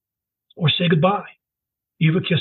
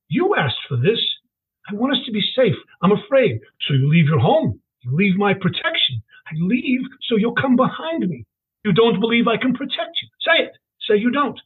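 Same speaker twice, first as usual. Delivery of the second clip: father pressing his daughter, pitch climbing higher; lightly voiced father, rising; 4 semitones higher than usual. Father at the station demanding his daughter say it, rising higher. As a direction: push her to admit it, voice going up. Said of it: "His tone rose".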